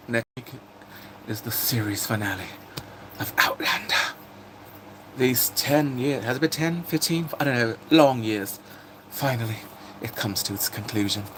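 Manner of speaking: put-on British accent, measured announcement. Streamer announces a series finale, put-on British accent. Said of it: "I can do the British accent".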